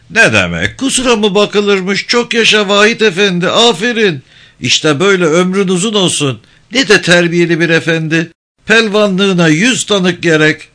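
high, sneering village elder; mock praise, dripping with scorn; mocking old man. Topal İsmail mocking, high voice. (alaycı, tiz sesli yaşlı ağa)

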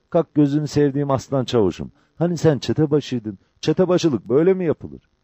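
high-pitched coaxing; Cabbar. A narrator's reading. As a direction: lift the voice, goading him to get up.

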